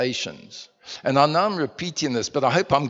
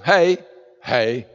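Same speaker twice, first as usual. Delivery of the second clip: American hey; 5 dB louder than usual. Retold or imitated. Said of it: "they see each other".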